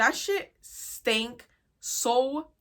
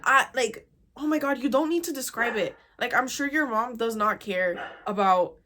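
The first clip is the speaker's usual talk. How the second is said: fed up, tell her off; exasperated telling-off; 5 dB louder than usual. Retold or imitated. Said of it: "I was getting so mad".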